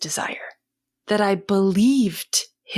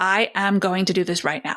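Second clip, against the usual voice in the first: forceful, authoritative, demanding, insistent tone. An adult acts out what a child might have said, in a demanding authoritative tone. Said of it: "in a very demanding, in a very authoritative tone".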